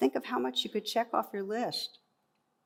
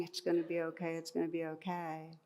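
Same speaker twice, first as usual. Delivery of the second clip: soft self-reassurance; 6 dB quieter than usual. Retold or imitated. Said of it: "we can reassure ourselves".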